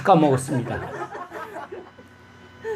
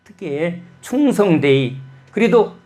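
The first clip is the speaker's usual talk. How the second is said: jab a finger at God and demand answers; a pastor's retold protest, hammed up, to God; arguing with God. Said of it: "주님한테 삿대질하듯이 막 따졌습니다".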